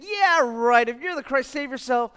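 scoff, starting loud then easing. Acted. Criminal imagined doubting Jesus on the cross, scoffing. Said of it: "this criminal is saying".

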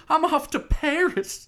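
mock excited. Retelling Simone's farewell.

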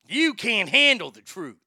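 loud, outraged movie outburst; Jack Nicholson. Shown as a demonstration. Host trying a famous film line, loud impression. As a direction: thunder it like a courtroom witness. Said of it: "I don't really do that great, Jack".

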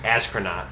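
"Astronaut" said as askronaut, falling; a rapper's astronaut. Retold or imitated. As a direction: say "Astronaut" with a k for the t, drawn out. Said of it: "he said astronaut on the song".

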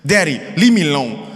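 quick, lightly mimicked toddler demand; sweet little toddler. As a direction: imitate a little boy's slurred, insistent words. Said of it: "His sweet little voice is like".

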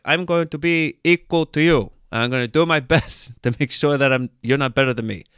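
high, loud put-on Danish voice; hammed-up Dane declaring it emphatically; earnest Dane. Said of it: "That's kind of the Danish way".

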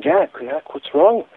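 high-pitched, gentle imitation of a concerned wife; tender. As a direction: ask it tenderly, pitched well up. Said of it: "and very tenderly".

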